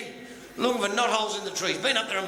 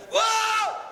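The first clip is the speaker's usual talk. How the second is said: high, drawn-out cry of shock; comic shriek of discovery; 12 semitones higher, 3 dB louder than usual. Acted. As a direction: wail it out high in mock horror. Patient wakes and sees the result.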